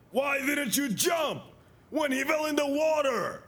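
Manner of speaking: angry yell. Retold or imitated. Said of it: "yelling at him".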